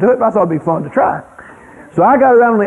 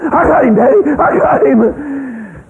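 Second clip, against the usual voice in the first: much higher, the end drawn out very slow; proud child shout; 7 semitones higher, slower than usual. Retold or imitated. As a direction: hold the rabbit up and crow. Boy comes up holding rabbit.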